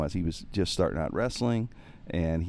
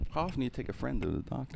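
softer, quick, higher worried question; concerned; 6 semitones higher, 5 dB quieter, faster than usual. Retold or imitated. Wife asking husband about his friend, mildly concerned. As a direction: imitate a puzzled wife treading carefully.

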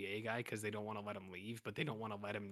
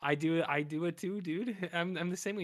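mock buddy cop; 6 semitones higher, 4 dB louder than usual. Mocking a cop faking friendliness.

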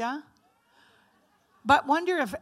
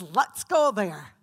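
low, slow, louder devilish invitation; tempting Satan; 3 semitones lower, 5 dB louder, slower than usual. Retold or imitated. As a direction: lure them in like Satan, slow. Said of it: "Satan pushes it and says".

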